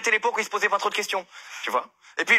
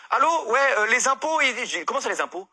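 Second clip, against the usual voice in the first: retold phone call. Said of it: "il appelle, le comptable".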